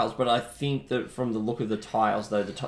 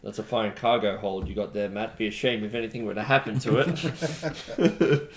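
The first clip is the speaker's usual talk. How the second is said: smiling threat. Pretend. Mafia-style pirate threat to Matt.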